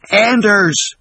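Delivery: high, loud cry for help; desperate call. Acted. Doctor calling for help as patient advances, loud.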